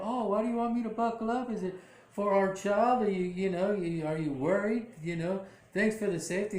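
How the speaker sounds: high, quick, fluttery imitation of Marissa; high fast mock pregnant wife. Wife questions husband at car.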